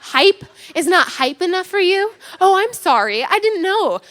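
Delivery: sarcastic mom taken aback; mock indignation. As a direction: feign offence, then a mock apology. Mom mocks son's answer.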